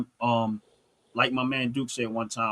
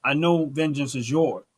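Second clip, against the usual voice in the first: pleading prayer; 3 semitones higher than usual. Retold or imitated. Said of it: "talking to God so many nights".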